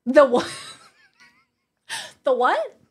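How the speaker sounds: loud, incredulous the what; disbelief, laughing; baffled question. Real, not acted.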